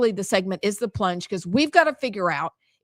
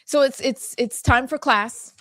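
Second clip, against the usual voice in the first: teacher voice; 4 semitones higher than usual. Pretend. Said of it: "Okay, not really. I'm just kidding".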